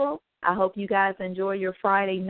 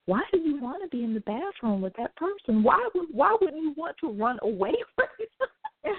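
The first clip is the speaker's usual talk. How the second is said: laughing puzzled question; 8 semitones higher than usual. Retold or imitated.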